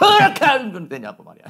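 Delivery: big-voiced scolding, very loud and high. Advising on giving counsel, showing the way not to: loud, raised voice. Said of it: "막 큰 소리로 말이야".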